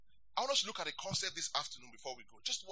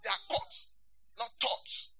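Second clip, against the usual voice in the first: high playful echo; 11 semitones higher than usual. Shown as a demonstration. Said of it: "You see, those rhemas are caught".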